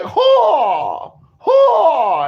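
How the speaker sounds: sharp high yelp of ho; retold loud ho. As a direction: belt out a high ho. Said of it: "It was like".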